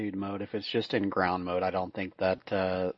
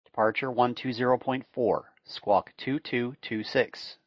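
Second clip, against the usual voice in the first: steady radio clearance readout; air traffic control. Acted. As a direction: read it like a tower controller.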